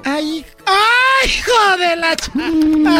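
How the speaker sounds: slow hammed-up crying shout; mock wailing. Mom wails at her son, slow hammed-up crying shout. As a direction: wail it out, overacted.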